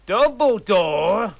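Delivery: shocked question. Acted.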